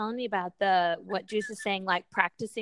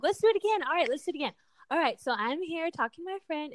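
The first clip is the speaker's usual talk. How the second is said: playful game voice; 6 semitones higher, faster than usual. Retold or imitated. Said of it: "I'd be like".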